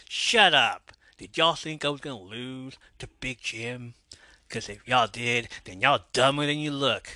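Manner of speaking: put-on Georgia-accented wrestler's taunt, loud at first. Wrestler talking back to the booing crowd, Georgia accent. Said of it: "that's the accent they're using".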